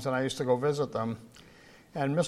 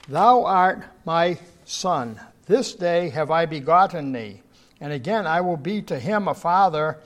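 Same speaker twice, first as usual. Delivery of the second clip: scripture reading; 3 dB louder than usual. Acted. Reads Hebrews aloud.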